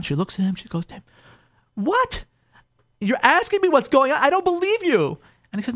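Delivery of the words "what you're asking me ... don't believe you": high, incredulous outburst; indignant wife. Acted. Bride to her husband, high and indignant. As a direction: voice the wife's disbelief, pitched up. Wife's outraged reply to husband.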